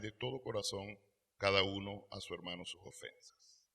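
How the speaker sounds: measured reading of the Gospel; solemn Bible reading voice; scripture reading. Real, not acted. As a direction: read the parable aloud to the flock. Reads the parable aloud.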